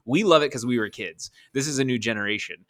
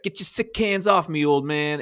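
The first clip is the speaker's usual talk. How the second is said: mock angry; 5 semitones higher than usual. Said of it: "he's mad at Rocky and he's like".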